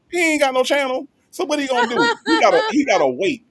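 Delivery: high, giddy taunting; mocking the rival who has to wait to answer; gleeful gloating. Real, not acted. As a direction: crow over the rival, laughing. Gloating mockery about rival.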